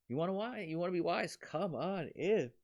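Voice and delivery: high, loud, eager invitation; excited calling out. Retold or imitated. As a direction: call them in like a party host. Wisdom inviting people in.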